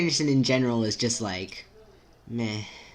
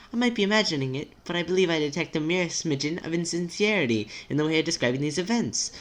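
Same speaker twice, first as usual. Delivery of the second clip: higher, careful, polite character voice; timid, formal friend; 6 semitones higher than usual. Acted. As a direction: gently point it out in a higher pitch.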